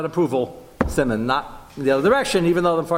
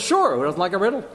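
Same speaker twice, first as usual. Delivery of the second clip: guests voiced; 6 semitones higher than usual. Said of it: "He says".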